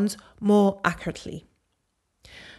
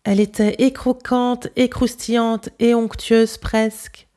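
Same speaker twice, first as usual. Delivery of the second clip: careful Parisian French nasal vowels; Parisian accent; 3 semitones higher, 3 dB louder than usual. Shown as a demonstration. Host compares nasal vowels with the guest, Parisian accent. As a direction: model the line in a clear Parisian accent. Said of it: "And here's my version".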